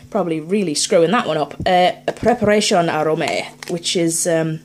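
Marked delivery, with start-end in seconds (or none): 2.1-3.7 put-on French label read in an accidental Spanish accent; botched French accent. Host struggling through a French ration label, botched French accent. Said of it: "I'm doing a Spanish accent".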